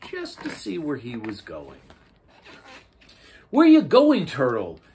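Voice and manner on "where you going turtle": high, loud calling voice; octopus voice. A narrator's reading. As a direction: call out high. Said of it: "said the octopus".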